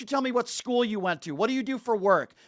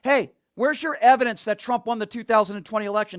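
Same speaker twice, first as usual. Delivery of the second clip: angry on-air rant; 2 semitones higher, 6 dB louder than usual. Real, not acted. Host berates pro-Trump caller.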